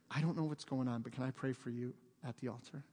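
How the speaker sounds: low, softened, discreet offer; mock whisper. Woman privately offering prayer to a stranger, softly hushed. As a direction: imitate a gentle word in someone's ear. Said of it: "just whispered in her ear".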